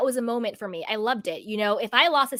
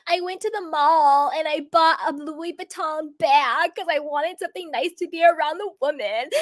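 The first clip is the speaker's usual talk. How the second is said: higher, whiny mock sob of Monica; mock crying; 4 semitones higher than usual. Mocking Monica's tearful handbag story for viewers, a whiny mock sob. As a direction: parody a teary confession about a handbag. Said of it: "where she's crying".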